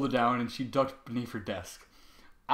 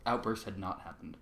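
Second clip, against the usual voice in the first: ordinary delivery, nothing marked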